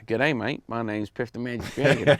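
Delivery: hammed-up Australian accent; broad mock-Australian introduction. Shown as a demonstration. Comedian demonstrates an Australian version of his act, mock Australian accent. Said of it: "Could have Australian Piff".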